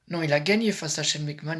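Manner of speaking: correcting himself, loud, gagné pushed out hard; loud correction. Real, not acted. Vlogger corrects his own slip about the result, loud. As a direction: snap back the mistake with gagné hit loud. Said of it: "excusez-moi".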